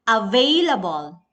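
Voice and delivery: available with VAI emphasized; available, its second syllable standing out; stress on second syllable. Shown as a demonstration. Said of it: "Vey is the stress syllable".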